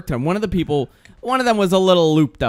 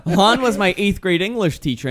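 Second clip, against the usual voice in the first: insistent explaining; 3 semitones higher, 4 dB louder, slower than usual. Retold or imitated. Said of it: "I'm like".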